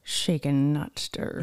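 Sean Connery. Pretend. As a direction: murmur it low as the Scottish spy. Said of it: "How does he like his martinis?".

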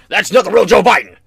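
lightly voiced outraged viewer; mocking commenter. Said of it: "people in my comments".

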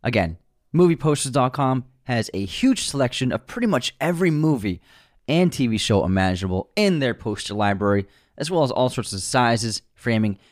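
steady, polished podcast ad delivery; sponsor ad read. Acted. Host plugs movie poster sponsor, ad read. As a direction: sell it cleanly to the listeners.

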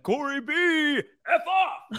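high, drawn-out jokey dismissal; mock Brian Cox. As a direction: toss it off as a playful insult. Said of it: "that could be pretty funny as well".

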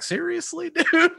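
high-pitched mock disbelief, laughing; incredulous. Sales rep reacting to a prospect's excuse, incredulous. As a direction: squeak it out like you can't believe them. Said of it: "That upward inflection is like".

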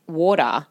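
"water" said like "order"; Australian "water". Shown as a demonstration. Explaining why Americans misunderstand, Australian-accented "water". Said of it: "Australians say water really stupid".

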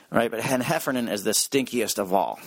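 usual speaking voice

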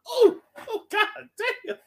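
high amazed oh, God damn; stunned reaction. Retold or imitated. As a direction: react like the line just floored you. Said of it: "I was like".

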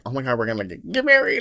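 retold gush, leaping high at the end; lovestruck gushing. Telling friends about instant love, lovestruck gushing. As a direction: squeal it like a giddy new crush. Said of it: "in love, like, instantly".

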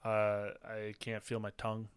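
talking through a spicy burn; mouth burning from spicy food. Real, not acted. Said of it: "my nose is running".

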